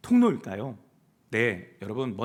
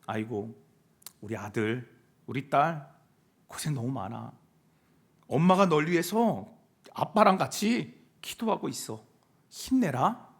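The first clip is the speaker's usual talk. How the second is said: tender parent; 5 semitones lower than usual. Acted. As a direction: comfort your grown child gently. Models a loving call to children. (자식을 다독이듯 낮고 부드럽게)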